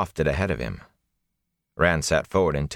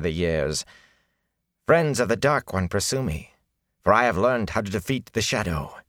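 unruffled; 4 semitones higher than usual. Acted. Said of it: "his voice was unruffled".

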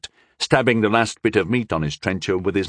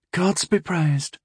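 slow, sour remark; 7 semitones higher, slower than usual. A narrator's reading. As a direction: say it sourly. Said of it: "Rondel said sourly".

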